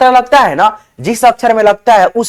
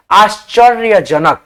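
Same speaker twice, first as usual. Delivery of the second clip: slow demo word; slower than usual. Shown as a demonstration. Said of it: "देखो".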